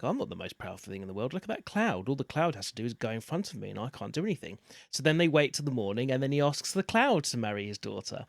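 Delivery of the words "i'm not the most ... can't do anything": fast, soft storybook sun; sun character. Acted. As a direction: voice the humble sun quickly. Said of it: "the son's like".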